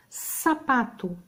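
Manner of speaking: Sapato said slowly, each syllable clear; slow demo word. Shown as a demonstration. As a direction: spell out Sapato slowly for children. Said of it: "S inicial". (palavra Sapato dita devagar)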